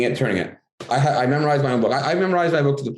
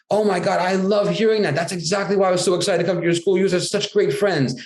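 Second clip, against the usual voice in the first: higher, gushing praise for the class; excited praise; 6 semitones higher than usual. Shown as a demonstration. Author praising a class of schoolkids, gushingly. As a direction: thrill at the kids' answer.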